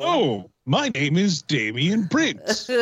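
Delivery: slow, swooping put-on voice; lightly hammed-up introduction, drawn out; Damian Prince. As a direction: stretch the name out in character. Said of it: "that's my Damian Prince impression".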